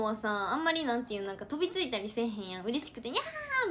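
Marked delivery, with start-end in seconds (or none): 3.1-3.7 high, mock meow of a cat. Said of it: "みたいな感じで". (高い声で猫の鳴き真似)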